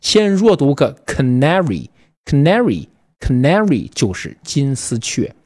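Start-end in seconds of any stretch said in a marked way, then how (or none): 1.1-3.9 canary with the weight on na, first syllable weak; teacher drilling canary, stress on na; stress on second syllable. Shown as a demonstration. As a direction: hit the na in canary. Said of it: "重读从第二个音节".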